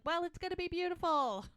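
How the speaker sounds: high-pitched retold shout; shouting over noise. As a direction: imitate someone shouting to be heard. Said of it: "They literally have to shout".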